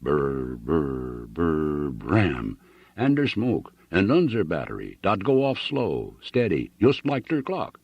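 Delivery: put-on thick German immigrant accent, old soldier reminiscing; a German farmer retelling the battle in heavy accent. Old German veteran tells Annixter of the war, heavy German accent.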